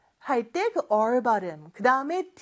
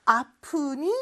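concerned asking; 4 semitones higher than usual. Acted. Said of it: "이렇게 물어볼 수 있죠".

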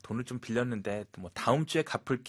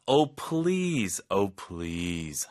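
scoffing "Oh, please" with a falling "oh"; skeptical oh please; 3 dB louder, much slower than usual. Shown as a demonstration. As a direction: brush off a silly claim. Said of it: "please라는 단어 하나 가지고 다양한 의미". (어이없다는 듯 "Oh, please")

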